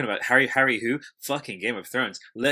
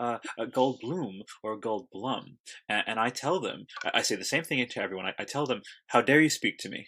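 Jeff Goldblum. Retold or imitated. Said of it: "it's like Jeff Goldblum speaking".

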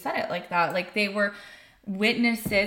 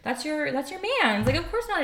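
imitating her friend; 7 semitones higher than usual. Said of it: "And she's like".

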